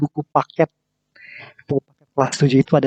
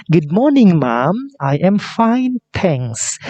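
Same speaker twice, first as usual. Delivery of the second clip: daughter replying; 3 semitones higher, much slower than usual. Acted. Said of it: "Siti merespon".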